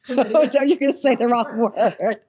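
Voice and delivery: laughing while warning her off; giggling through the words. Real, not acted. Teasing about a near-rude word.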